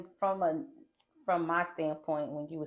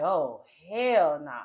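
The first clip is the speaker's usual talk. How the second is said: alarmed; 4 dB louder, much slower than usual. Retold or imitated. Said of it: "So now I'm like".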